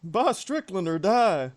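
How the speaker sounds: slow cartoon-dad mech threat; Mecha Hank Hill. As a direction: draw out the ultimatum like a villainous robot dad. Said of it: "here's Mecha Hank Hill".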